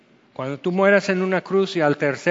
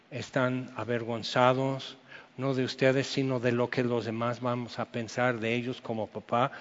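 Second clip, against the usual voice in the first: softer, calm pastoral tone; gentle counsel; 4 semitones lower, 5 dB quieter than usual. Retold or imitated. Pastor counselling the young couple, soft and calm. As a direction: talk them through it gently and quietly. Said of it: "todo así en este tono de voz".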